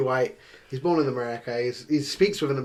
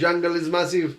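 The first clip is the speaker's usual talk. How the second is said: Ali G impression; 4 semitones higher than usual. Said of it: "He's about to go".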